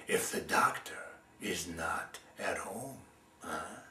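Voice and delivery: whispered, low, slow taunt; the crow hushing a trap for the sparrow; sly whisper. Acted. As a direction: hush it like a sly threat. Crow's final jab.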